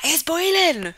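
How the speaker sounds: loud, high, exaggerated Cornish; Cornish accent. Shown as a demonstration. Streamer mimicking her own complaint in a strong Cornish accent. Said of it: "You can really hear my Cornish".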